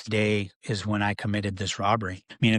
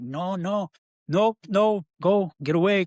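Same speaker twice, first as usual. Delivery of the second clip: higher, louder mock panicked no; hammed-up frantic get away; frantic refusal; 8 semitones higher, 3 dB louder than usual. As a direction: imitate them waving him off in alarm. Men refusing frantic stranger a ride.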